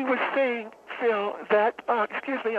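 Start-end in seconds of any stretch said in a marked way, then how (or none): 1.9-2.6 talking through a yawn. Real, not acted. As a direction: yawn mid-sentence while saying it. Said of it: "I'm yawning".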